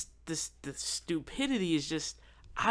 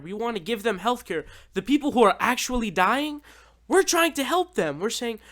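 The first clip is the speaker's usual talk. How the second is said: exasperated outburst; 5 semitones higher, 3 dB louder than usual. Real, not acted.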